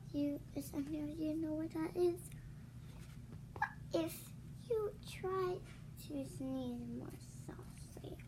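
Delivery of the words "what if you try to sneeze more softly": hushed whispered ending; soft whispered question. Acted. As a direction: drop to a whisper. Whispered suggestion.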